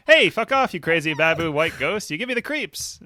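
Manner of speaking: hammed-up line reading. Shown as a demonstration. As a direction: act the line out big, as if it were said conversationally. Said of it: "That's a good line reading".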